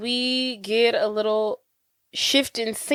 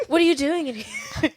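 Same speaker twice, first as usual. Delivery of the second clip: giggly quote; 4 semitones higher than usual. Retold or imitated. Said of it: "she's basically like".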